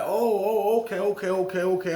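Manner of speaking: high, rapid-fire catching on; acted sudden realization. Acted sudden understanding of offer.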